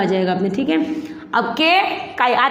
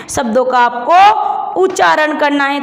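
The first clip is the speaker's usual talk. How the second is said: loud, firm teacher's point; emphatic teacher; 4 dB louder than usual. Real, not acted. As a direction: drive home the lesson. Teacher stresses the main point. (जोर देकर समझाती अध्यापिका)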